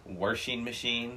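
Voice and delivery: "Washing" said as "warshing", slowly; slow "Washing" with an R thrown in; intrusive R. Retold or imitated. Mimicking family speech, "Washing" with added R. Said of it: "They throw in R's in there".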